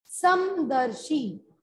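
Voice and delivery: समदर्शी drawn out slowly, syllable by syllable; careful pronunciation. Shown as a demonstration. Teacher modelling समदर्शी for spelling, slow careful pronunciation. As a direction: say समदर्शी at half speed, each sound distinct. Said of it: "बहुत ही ध्यान से इनको सुनिएगा".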